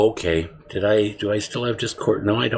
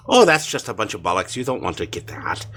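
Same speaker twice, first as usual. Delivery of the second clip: bad Cork accent. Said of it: "really bad Cork accent".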